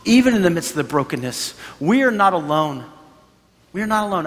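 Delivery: steady build of preacher's assurance; preaching. Acted.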